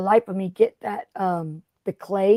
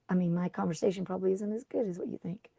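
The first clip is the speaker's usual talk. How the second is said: soft unvoiced whisper, half to herself; whispered aside; 2 semitones lower, 11 dB quieter than usual. Real, not acted. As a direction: whisper the confession like a secret. Self-deprecating aside to viewers.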